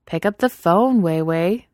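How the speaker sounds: firm command; ordering. Acted. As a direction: order her to pick up. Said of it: "Haley ordered".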